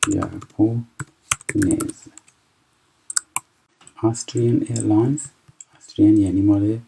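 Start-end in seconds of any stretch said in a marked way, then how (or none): 0.1-1.9 ژاپنز stretched out very slowly, sound by sound; very slow repeat. Shown as a demonstration. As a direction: drag ژاپنز out so every sound is heard. (ژاپنز را خیلی آهسته و کشیده بگو)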